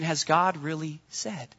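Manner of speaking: quiet doubting question. Retold or imitated. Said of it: "the simple question".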